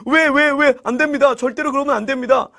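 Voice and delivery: high-pitched, pleading lament; hammed-up distraught protest; acted wailing. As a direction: beg desperately, as if close to tears. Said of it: "하면서 통곡을 하는 거예요".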